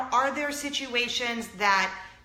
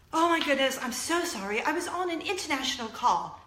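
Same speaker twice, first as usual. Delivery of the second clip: higher-pitched put-on British accent; fake British accent; 4 semitones higher than usual. Lady B excusing herself to waiting friend, fake British accent. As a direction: imitate a wannabe British lady. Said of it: "she talks like, you know, like when a singer".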